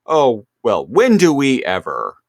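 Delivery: lightly hammed-up pout; pouty. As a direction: act out a pouting complaint. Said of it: "And she gets all pouty".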